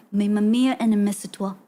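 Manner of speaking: learner's rough French accent. Shown as a demonstration. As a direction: say it like Mamma Mia with a French accent. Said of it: "but, like, with French accent".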